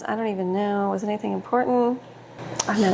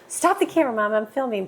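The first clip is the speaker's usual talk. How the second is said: mock kid protest. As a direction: play the kid who hates being filmed.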